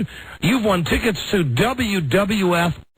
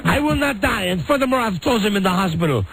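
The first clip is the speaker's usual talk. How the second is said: put-on French accent; 3 semitones higher than usual. Wife voice continues.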